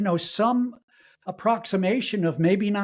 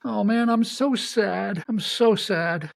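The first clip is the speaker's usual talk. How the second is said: mock sad man; 4 semitones higher, slower than usual. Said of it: "what man has permission to say".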